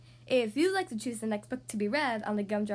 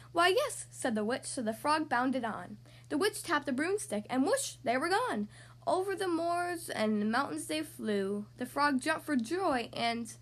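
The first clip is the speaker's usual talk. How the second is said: put-on lilting children's storybook reading; story narration. A narrator's reading. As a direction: read a rhyming tale to young children. Reads a picture book aloud.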